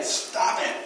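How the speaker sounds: breathy whispered stop it; hushed teasing echo to the congregation; whispered aside. Retold or imitated. Playful repeat to congregation.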